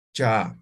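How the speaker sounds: Cha with a breathy puff; aspirated cha. Shown as a demonstration. Teacher shows aspirated Cha. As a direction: push air out on the Cha.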